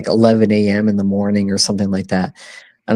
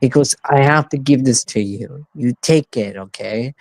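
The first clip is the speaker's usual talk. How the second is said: persistent uncle; 4 semitones higher than usual. Retold or imitated. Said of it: "he's very persistent".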